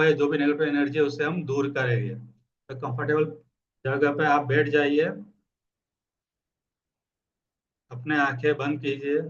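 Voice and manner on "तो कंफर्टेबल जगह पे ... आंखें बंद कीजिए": guided meditation. Acted. Coach asks listeners to close their eyes, calm meditation guidance. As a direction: ease them into stillness with long pauses.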